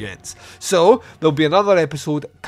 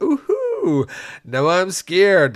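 mock fear; 5 semitones higher, much slower than usual. Santa mocks the deputy.

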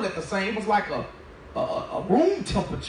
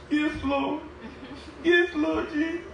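high, lifted call of praise with a laugh; church folk praise; 6 semitones higher, slower than usual. Retold or imitated. Doing what church folk do, high praising cry. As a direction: sing it out like the amen corner. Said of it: "I did what church folk do".

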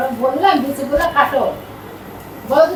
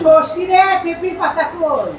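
to someone hard of hearing; 3 semitones higher, slower than usual. Real, not acted. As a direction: raise the voice so she hears. Calling to hard-of-hearing maid.

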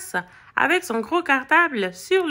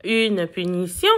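low, rising incredulous question; choked disbelief; 8 semitones lower than usual. A narrator's reading. Dog hearing of a punishment, choked disbelief. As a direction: echo it in mild shock. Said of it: "Einstein s'étrangla".

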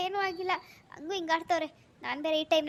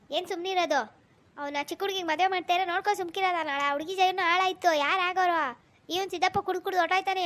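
angry scolding; 2 semitones higher than usual. Acted. Master scolds the servant before his wife, growing angry. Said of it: "ಅಪ್ಪವ್ರು ಇಷ್ಟೊಂದ್ ಸಿಟ್ಟಾಗ್ ಮಾತಾಡಿದ್".

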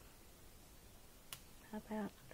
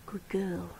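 whispered praise. Real, not acted. Carer praising the baby animal, whispering. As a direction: whisper it tenderly.

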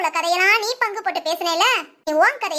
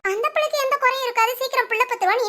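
mock quoting him; 3 semitones higher, faster than usual. Onlooker mimicking the stranger's promise, quick mock quote. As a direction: rattle off his claim quickly, a bit higher. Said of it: "இந்த ஆள் எப்படி சொல்லலாம்?".

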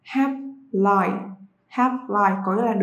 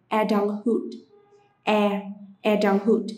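slow model word. Shown as a demonstration. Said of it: "từ tiếng Anh cho giai đoạn trưởng thành".

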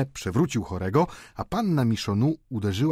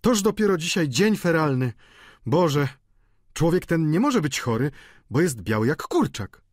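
higher, louder fretful landlady; lamentująca gospodyni; 7 semitones higher, 4 dB louder than usual. A narrator's reading. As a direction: bemoan the unlucky day. Pani Vauquer lamentuje. (podniesiony, biadolący głos gospodyni)

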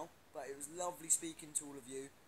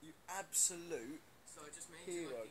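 hyped praise; 3 semitones higher, 3 dB louder than usual. Real, not acted. Hyping a fan's comment.

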